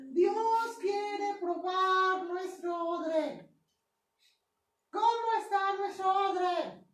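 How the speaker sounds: slow, sung-out preaching cadence. Acted. Preacher exhorts the congregation about the wineskin, chanting slowly. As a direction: stretch each phrase like a sermon refrain.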